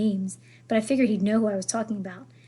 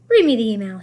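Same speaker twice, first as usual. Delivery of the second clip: a louder French command; French grandmother's demand; 8 dB louder than usual. Acted. Grandmother ordering Julian to read the email, French accent. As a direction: insist like a bossy French grandmother. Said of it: "thick French accent".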